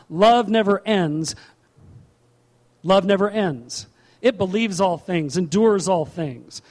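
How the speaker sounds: slow, emphatic scripture declamation; preaching. Real, not acted. Preacher recites love's qualities to the congregation, emphatic preaching. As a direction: proclaim each phrase with weight, drawn out.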